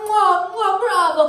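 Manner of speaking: sing-song phony Italian chatter; lightly sung mock air-kisses; a hint of pretentious party guests; mocking fake Italians. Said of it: "they're all just like".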